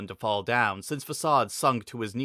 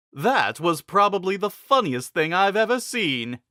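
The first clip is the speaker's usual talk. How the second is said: much higher, louder, amused; tickled by the sight; lightly voiced chuckling king; amused laughing king; 8 semitones higher, 5 dB louder than usual. A narrator's reading. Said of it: "Fassad laughed".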